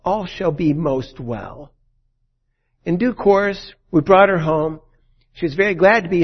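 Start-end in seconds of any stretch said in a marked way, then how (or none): 0.0-1.7 her watchword. Retold or imitated. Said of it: "Her watchword".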